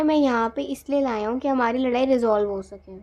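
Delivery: loud exasperated complaint to the partner; hurt angry plea. Acted. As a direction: pour out frustration at being ignored. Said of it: "तो कह रहे".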